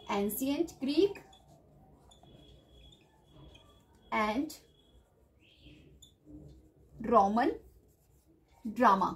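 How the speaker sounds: slow, soft words with long gaps; word-by-word dictation. Real, not acted. Teacher noting down key terms for students, word-by-word dictation. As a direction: murmur each word as if writing it down. Saying words while writing them.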